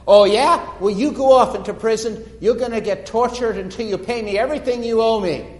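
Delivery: unforgiving servant yelling at his debtor; angry threat. Acted. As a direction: throw him into prison with a shout. Servant condemns fellow servant.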